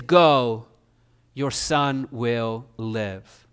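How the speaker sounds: low, slow, tender assurance; compassionate. Acted. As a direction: reassure gently, drawing the words out. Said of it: "In compassion".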